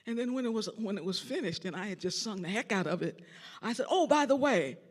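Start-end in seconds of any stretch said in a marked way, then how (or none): 3.9-4.8 laughing reveal. Retold or imitated.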